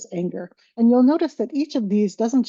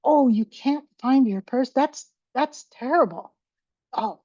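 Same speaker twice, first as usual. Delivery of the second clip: sympathetic validation; 4 semitones higher than usual. Shown as a demonstration.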